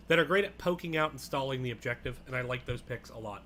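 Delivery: talking while chewing food; words round a bite of food; mouth full. Real, not acted. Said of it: "Sorry, I'm eating on stream".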